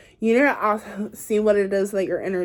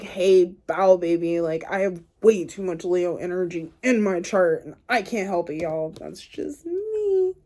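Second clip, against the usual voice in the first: in-your-face sass; 2 semitones lower than usual. Retold or imitated. Reader mimics a brash Leo client, in-your-face sass. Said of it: "like, in your face".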